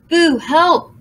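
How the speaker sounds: high shouted call; shout for help. A narrator's reading. Aru calls the pigeon for help, shouting. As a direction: yell for the pigeon. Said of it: "shouted Aru".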